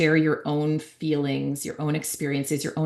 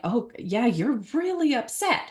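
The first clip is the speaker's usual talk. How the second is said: validating parent; 7 semitones higher than usual. Retold or imitated. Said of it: "they want us to be like".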